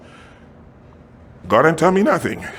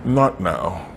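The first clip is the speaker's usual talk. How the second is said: quiet; 4 semitones lower, 6 dB quieter, slower than usual. Pretend. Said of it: "Sometimes you just have to say".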